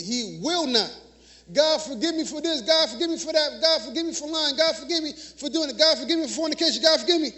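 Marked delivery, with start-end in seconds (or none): 1.5-2.6 a quick, slightly higher, routine plea to God; rattled-off prayer. Shown as a demonstration. Preacher mocking a shallow prayer, rote and quick. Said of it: "And then we stop there. No". 2.6-7.3 rote list of pleas, slightly higher, speeding up; rattled-off prayer. Shown as a demonstration. Preacher mocking a shallow prayer, rote and hurried. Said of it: "And then we stop there. No".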